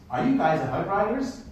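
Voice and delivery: lightly imitated American accent. Kid asking the cyclists who they are, light American accent. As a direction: mimic an American kid's question. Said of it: "In an American voice".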